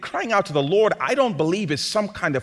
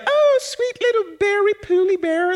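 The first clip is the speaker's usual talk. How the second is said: mock sweet talk. Someone cornered by a ferocious bear, mock cooing baby talk. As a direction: coo at the bear like it's a cuddly pet. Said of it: "and you're like".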